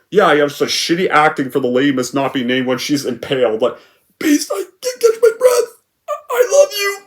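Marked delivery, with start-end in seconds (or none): 4.2-7.0 very high, squeaky fake sobbing; exaggerated mock dying. Raven dying in Beast's arms, hammed-up squeaky sob. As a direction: overplay the death line to ridicule it.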